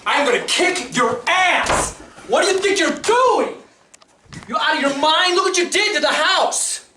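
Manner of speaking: furious yelling. Real, not acted. Father yelling at son over mess.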